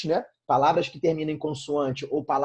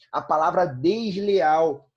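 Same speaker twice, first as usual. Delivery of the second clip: slow demo word; 5 dB louder, much slower than usual. Shown as a demonstration.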